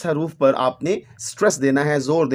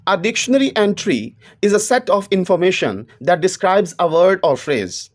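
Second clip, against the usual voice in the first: reads each English word slowly and deliberately; slow textbook reading; much slower than usual. Acted. Teacher reading the book's English line to students, slow and measured. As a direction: dictate it word by word to the class.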